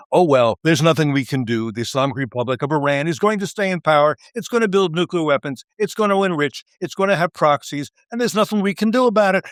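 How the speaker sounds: sarcastic hopeless shrug, climbing in pitch; mock defeatist. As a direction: parody the fatalist who gives up on Iran. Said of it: "doesn't mean you say".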